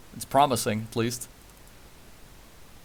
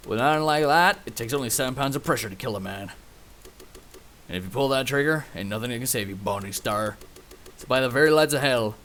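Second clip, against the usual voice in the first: put-on Western accent. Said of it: "I gotta do the fucking Western accent".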